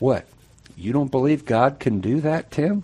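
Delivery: flat, deadpan delivery. Retelling how another man looked at him and answered: retelling a deadpan reply.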